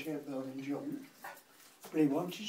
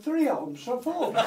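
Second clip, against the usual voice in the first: loud, high stubborn retort; stubborn haggling; 7 semitones higher, 8 dB louder than usual. Acted. Sam refusing to budge on his price to Noah, stubborn.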